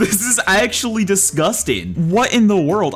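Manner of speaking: high, incredulous exclamation; freaked out by what you see; freaking out. Real, not acted. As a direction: react in amazed disbelief. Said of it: "I'm actually freaking out".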